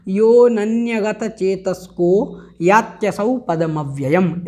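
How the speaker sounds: यो नन्यगत चेतस्को यात्यसौ पदमव्ययम् recited slowly and clearly; careful recitation of यो नन्यगत; model pronunciation. Shown as a demonstration. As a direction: recite the line slowly, word by word. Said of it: "इस प्रकार से इसका आपको उच्चारण करना है".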